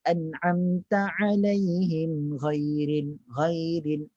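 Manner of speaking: slow recitation ending in a thin, open GHAIRIL; wrong low articulation. Shown as a demonstration. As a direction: chant it, leaving ghairil unraised. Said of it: "Oh, tak boleh". (bacaan dengan ghairil nipis yang salah)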